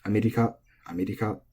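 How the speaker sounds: "America" said flat as amerika; flat Japanese accent. Shown as a demonstration. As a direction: keep "America" level with no pitch drop. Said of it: "in Japanese, it's flat".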